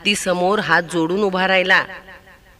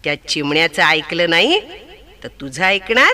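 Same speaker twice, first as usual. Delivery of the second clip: angry elephant; 3 semitones lower than usual. Acted. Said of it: "हत्तीनं रागा रागानं चिमणीकडे पाहिलं".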